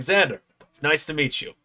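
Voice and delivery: a rough hint of a star's greeting; Joe Hendry. Wrestler greets his fan, lightly impersonated. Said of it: "not the best Joe Hendry impression".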